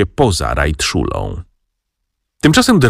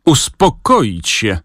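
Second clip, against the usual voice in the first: shouted; 3 semitones higher, much slower than usual. Acted. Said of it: "krzyknął dyrektor".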